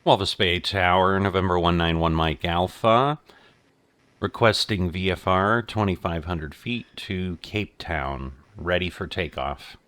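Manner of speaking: loud, crisp radio call; pilot over the radio. Real, not acted.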